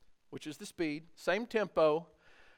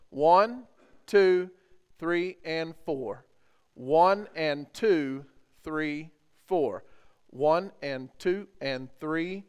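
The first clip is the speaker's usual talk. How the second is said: counting out rhythm; 3 dB louder, much slower than usual. Shown as a demonstration. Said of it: "we're gonna count it out again".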